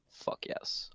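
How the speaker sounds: hushed, whispered little celebration; real under-the-breath whisper; whispered triumph. Real, not acted. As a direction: whisper it to yourself, pleased. Player quietly celebrates the roll.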